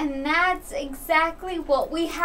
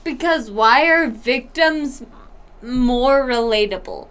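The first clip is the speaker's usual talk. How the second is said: talking through hiccups. Real, not acted. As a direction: hiccups breaking the flow. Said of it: "shut up. The fuck about the hiccups".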